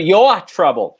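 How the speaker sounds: imitated Boston accent, R dropped from "your"; exaggerated Boston "your", said as "yo-ah". Critic shows how actress should say it, Boston accent. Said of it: "She didn't say it then".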